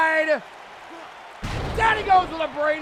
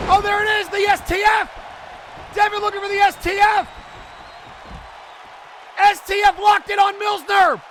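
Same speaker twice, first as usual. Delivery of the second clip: excited call; 6 semitones higher than usual. Real, not acted. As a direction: yell the submission as it happens. Submission hold, opponent taps.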